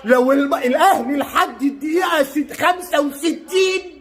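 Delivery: high, drawn-out fan outburst; exasperated outburst. Real, not acted. Frustrated fan ranting at his team during the match, exasperated outburst. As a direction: cry it out high, stretching the words.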